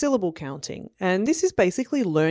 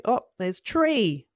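slow car game; 4 semitones higher, slower than usual. Shown as a demonstration. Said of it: "you might say".

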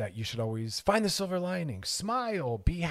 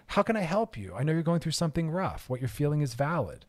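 supportive. Shown as a demonstration.

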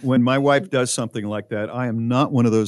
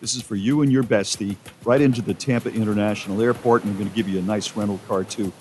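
ad read; 3 semitones higher than usual. Acted. Radio host reads a promo.

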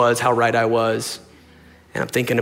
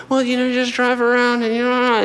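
lightly voiced mom, higher; 11 semitones higher than usual. Son imitates his mom's directions, in a high voice.

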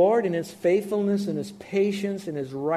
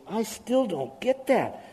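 puzzled listener; 5 semitones higher than usual. Retold or imitated. Preacher imitating a confused congregant, lightly higher. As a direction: mimic a confused listener asking. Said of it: "some of you are saying".

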